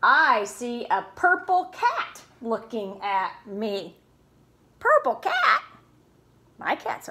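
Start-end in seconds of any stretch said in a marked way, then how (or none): 4.8-5.6 high, loud, surprised question; hammed-up disbelief; mock surprise. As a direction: act amazed for the kids. Mock surprise at purple cat.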